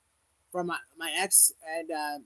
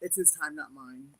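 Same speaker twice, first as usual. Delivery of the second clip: humble prayer. Retold or imitated. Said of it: "I'm like".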